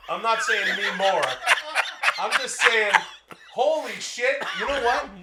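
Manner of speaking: high, laughing talk; can't stop giggling. Real, not acted.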